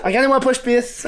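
giggling through a mock warning; laughing mock plea. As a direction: play it laughing, half serious. Acting out someone at urinal.

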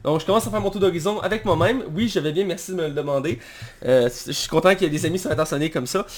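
half-numb mouth; numb from the dentist. Real, not acted. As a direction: talk through a frozen jaw. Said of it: "J'ai la moitié de la bouche gelée".

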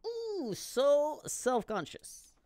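high, slow, mock-coy Québécois accent; drawn-out high English with a Québécois accent; French-accented English. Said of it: "l'accent, là".

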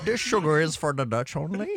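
smug Dutch player refusing sugar; mock Dutch accent. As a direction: Dutch accent, lightly done. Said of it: "accent hollandais".

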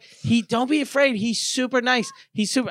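calm him about the bird; reassuring girl. Retold or imitated. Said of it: "she was like".

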